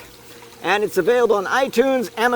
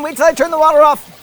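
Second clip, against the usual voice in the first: fast and higher, rushing; hurried; 8 semitones higher, 4 dB louder, faster than usual. Real, not acted. Host hurrying to shut the water off, hurried. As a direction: blurt it while rushing to the tap.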